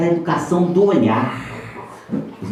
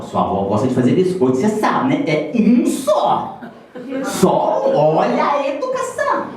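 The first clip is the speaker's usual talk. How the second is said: madre ammonitrice; 3 semitones higher than usual. Retold or imitated. Mother warning about biscuits.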